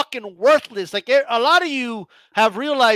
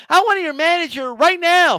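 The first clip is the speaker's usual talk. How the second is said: higher, demanding the manager; entitled lady; 6 semitones higher than usual. Retold or imitated. A short-haired lady demanding the manager, higher and insistent. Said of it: "with short hair and shit".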